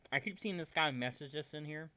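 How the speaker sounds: talking through a mouthful of popcorn; munching popcorn. Real, not acted. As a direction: mouth full, chewing popcorn. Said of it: "Excuse me, I'm eating popcorn".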